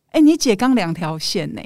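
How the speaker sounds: breezy, offhand news; casual tone. Retold or imitated. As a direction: say it like it's nothing. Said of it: "用很轻松的口气告诉我说".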